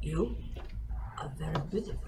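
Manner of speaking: hushed and low; soft whisper. Acted. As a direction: lean in and murmur it. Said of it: "I'm gonna lean down and be like".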